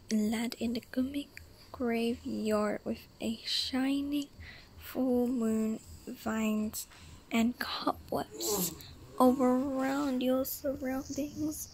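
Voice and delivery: slow whispered story reading; story narration. Acted. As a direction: read it slowly, hushed. Reads interactive story aloud.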